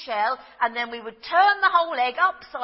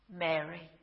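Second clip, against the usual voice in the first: soft, lower, gentle calling of a name; tender name; 8 semitones lower, 7 dB quieter than usual. Acted. Jesus at the tomb gently calling Mary, soft and tender. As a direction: say her name softly, full of recognition. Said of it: "And he says it in Aramaic".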